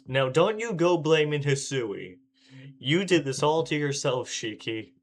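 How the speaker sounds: mock scolding. Player scolds the game's protagonist.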